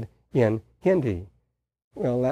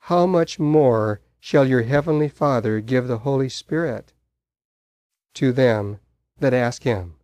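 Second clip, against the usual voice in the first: scripture quotation. Acted. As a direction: deliver the promise with weight, slowing on "being evil". Quotes Jesus from scripture.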